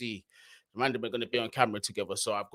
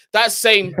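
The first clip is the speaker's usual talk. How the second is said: laughing; 10 semitones higher, 9 dB louder than usual. Real, not acted. Breaks up laughing mid-story.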